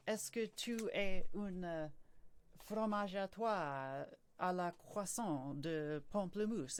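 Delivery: French gibberish. Shown as a demonstration. Pretending to be on the phone, in French gibberish. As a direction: babble slow, hammed-up fake French. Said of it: "just pretend to be on the phone or something".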